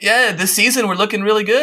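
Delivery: a clumsy imitation of a Newcastle accent about football; Geordie accent. The Newcastle lady talking football to the wingman, in a bad Geordie accent. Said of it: "this is a horrible accent".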